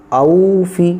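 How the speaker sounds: औ फ़ी with औ held medium; medium-length औ. Shown as a demonstration. Teacher demonstrating the word for students. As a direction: say औ neither quick nor long. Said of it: "ना जल्दी पढ़ा जा रहा है".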